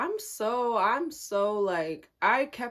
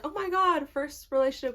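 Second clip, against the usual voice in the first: higher-pitched gushing; mock giddy excitement; 6 semitones higher than usual. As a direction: gush like a first-time girlfriend. Voicing her excited younger self.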